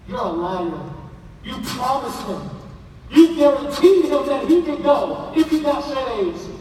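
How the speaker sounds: wife scolding husband, rising to a shout on guarantee; angry wife. Acted. Wife confronting husband about broken promise, angry shout. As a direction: accuse him of breaking his word.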